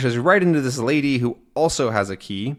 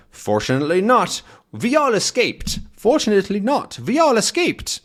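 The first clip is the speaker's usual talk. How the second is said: lying doctor; 9 semitones higher than usual. Acted. Doctor lies about escape.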